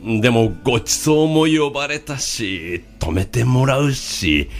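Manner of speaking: slow, worried monk thinking aloud; troubled monk. Acted. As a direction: mutter through the dilemma slowly.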